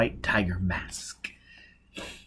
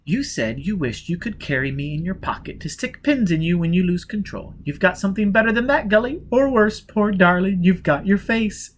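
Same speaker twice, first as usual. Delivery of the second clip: pitying; 8 semitones higher than usual. A narrator's reading. Pitying, poor darling.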